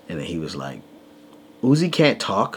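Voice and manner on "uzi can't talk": put-on child's retort.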